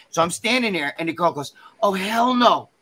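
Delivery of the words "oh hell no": mildly raised, emphatic refusal; indignant rejection. Retold or imitated. Best friend refusing the contestant for her friend, indignant put-down. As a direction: lay down each refusal slowly and firmly.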